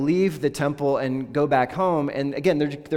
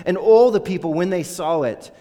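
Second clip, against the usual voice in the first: swelling praise; 5 semitones higher, 9 dB louder than usual. A narrator's reading. Crowd praising God.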